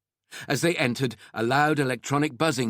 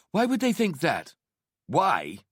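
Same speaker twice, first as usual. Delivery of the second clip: high-pitched, disbelieving question; heated challenge; 8 semitones higher than usual. Acted. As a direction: challenge him, voice pitched right up. Acted quarrel between husband and wife.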